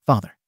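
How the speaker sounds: father stressed with understated venom; malicious stress. A narrator's reading. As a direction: spit out father as a mild taunt. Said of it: "emphasized that last word with malice".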